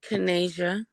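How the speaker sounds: Kanasia said kuh-NAY-zhuh; name pronunciation. Shown as a demonstration. Newcomer telling the host how to pronounce Kanasia, kuh-NAY-zhuh. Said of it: "how do you pronounce your name again?".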